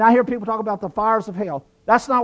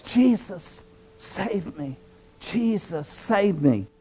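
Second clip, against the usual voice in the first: weak, hushed, halting plea; imitating a choked, faint cry for help; barely getting voice out; 7 dB quieter, much slower than usual. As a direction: struggle to squeeze the words out softly. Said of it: "barely could get it out my voice".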